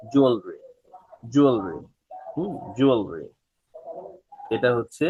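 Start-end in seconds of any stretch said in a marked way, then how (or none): 0.1-3.3 জুয়েলারি as "JUAL-ri"; জুয়েলারি without the middle "la"; model pronunciation. Shown as a demonstration. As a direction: drill জুয়েলারি, falling each time. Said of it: "জুয়েলারি না এটা".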